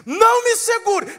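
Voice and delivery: loud, high-pitched order; commanding exclamation. Acted. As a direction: stop someone in their tracks. Jesus stops Maria grabbing him.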